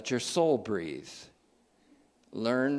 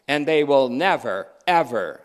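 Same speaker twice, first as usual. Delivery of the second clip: louder, forceful verse reading; emphatic preaching; 3 semitones higher, 8 dB louder than usual. Real, not acted. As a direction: drive the promise home loudly.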